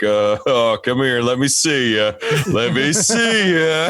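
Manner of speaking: nervous, rising, slowing into a laugh; nervous coaxing. Retold or imitated. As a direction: coax the dog while scared. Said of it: "then I have the nervous one".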